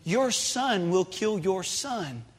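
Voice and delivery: dropping to a soft, grave warning; hushed warning. Acted. Warning Eve of her son's murder, suddenly hushed. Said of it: "if we could just step up and say".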